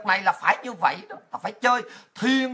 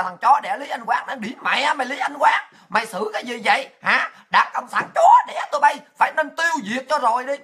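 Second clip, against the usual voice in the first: mock cursing tirade; 2 semitones higher than usual. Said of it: "Họ ra chửi, chửi đóng nó như vậy".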